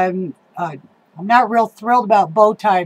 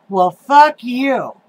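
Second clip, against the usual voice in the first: defiant; 2 semitones higher, 3 dB louder, much slower than usual. Real, not acted. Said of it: "I get so mad".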